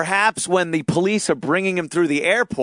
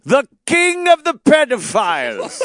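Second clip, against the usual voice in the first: laughing; 9 semitones higher, 4 dB louder than usual. Real, not acted. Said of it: "is that what he's called now?".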